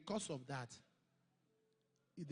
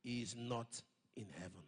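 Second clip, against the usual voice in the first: the Lord speaking; 7 semitones lower than usual. Retold or imitated. Repeats the Lord's words.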